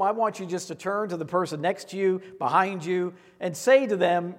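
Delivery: normal talking voice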